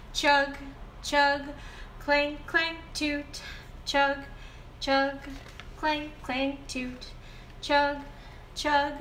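put-on reading to a toddler. Reads picture book aloud.

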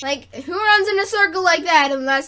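loud, hammed-up outrage; mock outraged rant. Ranting at kids running in circles, loudly and hammed-up. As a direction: yell it like a mock scandalised parent.

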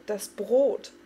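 a loud alarmed shout of Brot; cried out. A narrator's reading. Farik warning everyone about the bread, shouting. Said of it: "schrie Farik".

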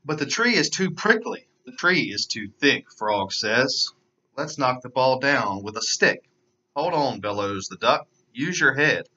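put-on lively storybook narration for kids; animated read-aloud voice; children's story reading. A narrator's reading. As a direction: read it like story time for little ones. Reads picture book to children.

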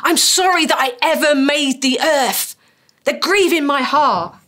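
a mild reading as an indignant God, not a grieving one; the wrong slant. Acted. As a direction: lightly voice God as offended. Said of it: "depends what emphasis, what slant you put on this".

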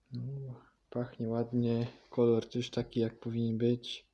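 glass held at lips; speaking into a glass. Real, not acted. Seen 0: Glass rim held right at mouth and nose while speaking.

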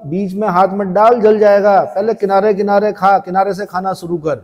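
डाँटती दादी. Acted. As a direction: mildly scold a child, as a retold grandmother. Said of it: "तो दादी ने बेलन से मारा, बोला". (दादी की हल्की नकली डाँट)

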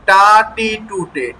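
টা টি টু টে with a hard, dry ট and no puff of air; crisp unaspirated ṭ. Shown as a demonstration. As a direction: tap out টা টি টু টে cleanly. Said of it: "এই দুটোর পার্থক্য যেন স্পষ্টভাবে বোঝা যায়".

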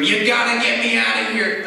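high, loud mock scream; retold scream. Roommate to his wife on the phone, desperate mock scream. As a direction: imitate a desperate yell into the phone. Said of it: "and scream".

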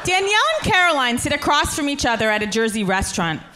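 stage directions. Acted.

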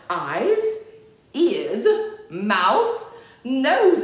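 brisk word-by-word drill. Shown as a demonstration.

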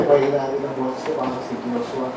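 low, very soft voice; weak voice. Shown as a demonstration. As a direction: drop to a small, quiet voice. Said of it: "Ganyan yung boses ko dati". (mahina at mababang boses)

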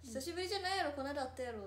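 playfully indignant retold objection; retold retort. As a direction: throw back a fan's mock protest. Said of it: "って言われた".

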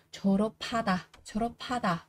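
졸업하다 with p and h merged into aspirated p; aspirated sound. Shown as a demonstration. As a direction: say 졸업하다 as jo-reo-pha-da. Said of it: "chuyển sang thành là âm bật hơi".

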